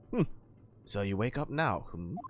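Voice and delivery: Russian sailor voice; Russian accent. Acted. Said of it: "it's the Russian, other Russian sailor".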